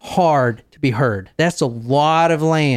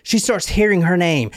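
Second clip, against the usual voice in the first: ordinary talk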